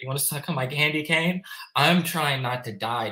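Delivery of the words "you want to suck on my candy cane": high, nimble, dainty delivery. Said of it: "It's all nimble and fucking dainty".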